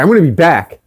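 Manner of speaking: a touch of defiant threat; mildly pissed parting shot; defiant retort. Retold or imitated. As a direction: throw it back at her, mock tough. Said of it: "I fucking told her that".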